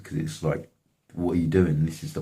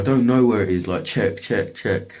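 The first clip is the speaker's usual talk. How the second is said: mock exasperated protest; 5 semitones higher, 5 dB louder than usual. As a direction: imitate his defensive denial, pitched up. Acted protest in retold argument.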